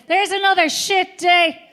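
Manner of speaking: mock grumble. She complains at husband.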